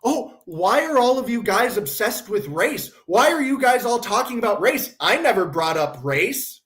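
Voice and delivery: put-on indignant questioning; mock innocent complaint. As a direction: imitate someone feigning innocence about it. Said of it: "comes back going".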